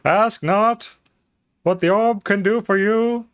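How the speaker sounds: high, pompous presidential oration; grand speech voice. Pretend. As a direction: declaim like a statesman at a podium. JFK parody speech.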